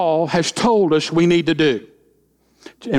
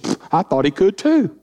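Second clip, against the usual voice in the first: put-on chuckling as the drunk answers; amused drunk answering the policeman, laughing; laughing through it; 3 semitones higher than usual. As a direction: let a laugh break into the punchline. Drunk's punchline told with laugh.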